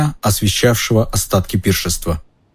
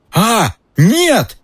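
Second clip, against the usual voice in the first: frightened cry; 13 semitones higher than usual. Acted. Harry wakes from nightmare.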